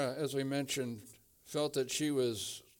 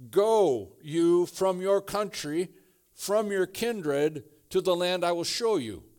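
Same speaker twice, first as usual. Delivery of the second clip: louder, slow, emphatic Go; commanding voice; 4 semitones higher, 5 dB louder than usual. Shown as a demonstration. Preacher voicing God calling Abraham, loud and slow. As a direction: proclaim it like a divine call. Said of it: "God says".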